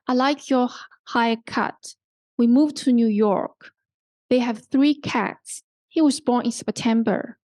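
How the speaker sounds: statement with the voice falling on "haircut", "York", "cats", "September"; falling intonation. Shown as a demonstration. Teacher models narrative statements for learners, falling intonation. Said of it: "they are with falling intonation".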